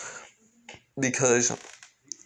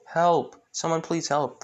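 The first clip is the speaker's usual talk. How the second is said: mild mock cry for help; 5 semitones higher than usual. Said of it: "yelling out for help".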